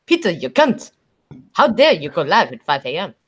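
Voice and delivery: mock Australian accent, swooping up and down. Streamer mimicking a chat message back, mock Australian accent. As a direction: put on a hammy Australian accent. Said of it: "fantastic Australian accent you do".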